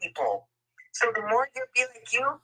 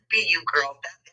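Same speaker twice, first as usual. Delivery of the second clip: ordinary talk, nothing marked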